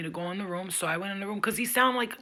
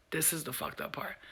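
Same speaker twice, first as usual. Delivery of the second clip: whispered aside; 3 semitones lower, 7 dB quieter than usual. Acted. Hushed aside in scary story.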